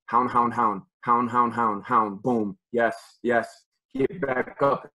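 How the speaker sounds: chanting along with the replay, fired up; excited film calling. Real, not acted. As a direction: call each hound like you're watching it live. Coach calling along with game film.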